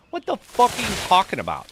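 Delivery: high, loud disbelieving cry; exasperated retold yell; incredulous outburst. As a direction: let the retold anger burst out. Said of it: "And I was like".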